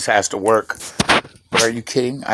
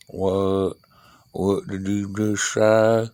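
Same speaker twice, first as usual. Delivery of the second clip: confused Floridian; much slower than usual. Retold or imitated. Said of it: "They're like".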